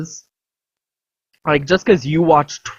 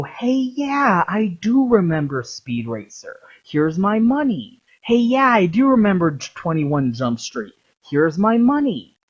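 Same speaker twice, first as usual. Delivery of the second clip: put-on higher, dopey fan voice gushing over old films; mock naive moviegoer; 5 semitones higher than usual. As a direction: play the eager fan handing over cash, pitched up. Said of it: "the people who go".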